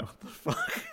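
high, squeaky quote dissolving into laughter; laughing mock disbelief. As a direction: mimic stunned disbelief while cracking up. Mimics the teacher's look, laughing.

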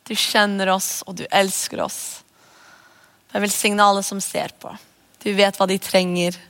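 calm, earnest prayer to Jesus; praying for the viewers in the dark season, calm; spoken prayer. Acted. Closing prayer.

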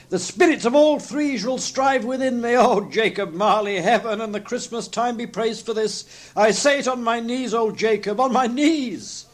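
high, fervent thanksgiving; Scrooge, fluttered and glowing. A narrator's reading. Scrooge thanks Jacob Marley on his knees, fluttered. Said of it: "so fluttered and so glowing with his good intentions".

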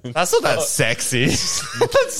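laughing through the words. Real, not acted. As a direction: giggle while you say it. Laughing at the sound effect.

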